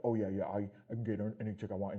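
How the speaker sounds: mock bragging commenter. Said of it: "the way y'all be writing shit like".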